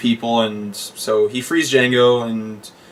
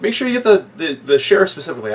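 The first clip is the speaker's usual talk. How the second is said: high mock German; 6 semitones higher, faster than usual. Quoting the dentist again.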